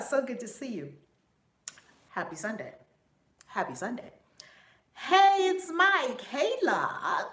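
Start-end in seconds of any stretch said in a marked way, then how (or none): 4.9-7.3 high, loud hello to a viewer; excited greeting. Real, not acted. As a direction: call out a big hey, high and loud.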